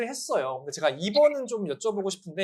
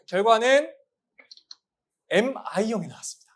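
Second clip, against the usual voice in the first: dramatic result reveal; 3 semitones higher, 4 dB louder than usual. Acted. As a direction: drag it out like a game show host. Result reveal after drumroll.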